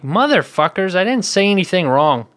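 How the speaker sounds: mildly indignant retold protest; mock indignation. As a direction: protest your innocence, a touch exasperated. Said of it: "been so mad about that".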